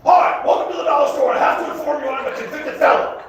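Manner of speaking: high, loud mock cashier greeting; a tough cashier greeting a customer. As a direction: chirp it like an overly friendly clerk. Dollar store cashier voiced.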